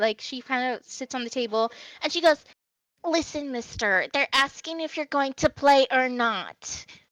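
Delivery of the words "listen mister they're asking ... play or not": tiny little fairy pixie character voice. Voicing a little pixie on the table, urging a player: little pixie voice. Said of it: "it's this little pixie".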